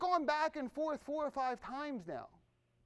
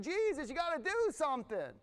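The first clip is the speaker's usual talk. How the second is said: higher, insistent plea; begging, demanding; 4 semitones higher than usual. Retold or imitated. Woman begging Jesus to act, demanding. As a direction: press hard with a mock desperate demand. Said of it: "She's begging, she's demanding".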